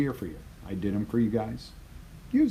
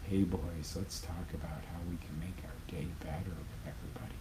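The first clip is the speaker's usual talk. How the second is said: much softer, deflated mock rally; limp pep talk; 2 semitones lower, 10 dB quieter than usual. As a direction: drain all the energy out of it. Mocks limp manager pep talk.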